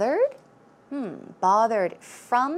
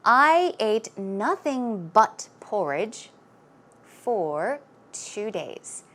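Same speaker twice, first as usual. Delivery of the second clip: slow, careful sample sentence; slow model sentence; slower than usual. Shown as a demonstration. Teacher reading a sample sentence slowly to students. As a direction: spell it out slowly for learners. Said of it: "Here is a sample sentence".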